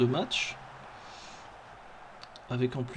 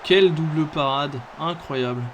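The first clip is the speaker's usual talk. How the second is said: loud amazed exclamation; excited sports commentary; 7 dB louder than usual. Real, not acted. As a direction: shout in wonder at the save. Keeper makes a double save.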